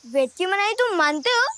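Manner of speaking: usual speaking voice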